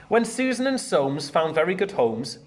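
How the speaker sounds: put-on lively read-aloud to children; bouncy storybook narration; story reading. A narrator's reading. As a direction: read it out like a picture book for the class. Teacher reads picture book aloud.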